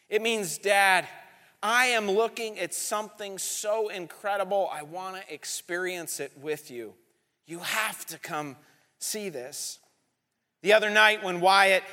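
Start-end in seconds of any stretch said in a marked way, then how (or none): 0.6-9.8 dropping much softer toward the end; hushed, sharing a wonder; a child quietly inviting his dad to share the moment; tender hush. Retold or imitated.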